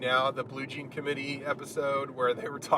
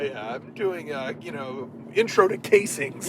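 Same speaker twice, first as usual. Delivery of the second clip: put-on Midwestern accent. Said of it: "weird Midwestern accent".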